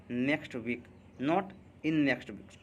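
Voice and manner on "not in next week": very slow, each word spelled out for the class; slow teacher dictation; slow correction. Shown as a demonstration. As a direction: drag out the warning word by word. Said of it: "ये common error है".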